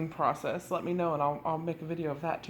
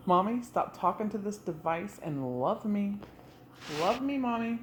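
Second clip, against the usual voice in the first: voicing the dog; 3 semitones higher than usual. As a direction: speak for the needy dog. Voicing the dog's thoughts.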